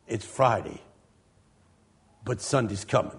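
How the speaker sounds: low, soft preacher's refrain; nice and soft. Retold or imitated. Pastor opens his famous one-line sermon, nice and soft. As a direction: imitate a preacher starting off hushed and low. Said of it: "Started off nice and soft".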